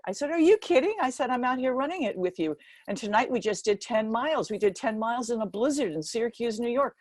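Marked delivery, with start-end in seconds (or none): 0.3-0.9 high, loud indignant burst; angry retort. Retold or imitated. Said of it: "boy, did I get mad". 1.3-6.9 mad. Retold or imitated. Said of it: "boy, did I get mad".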